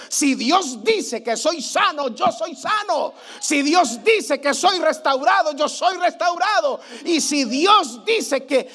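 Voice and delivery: rising, shouted declarations of faith; full-force revival preaching; fiery preaching. Acted. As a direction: proclaim it with mounting fervour.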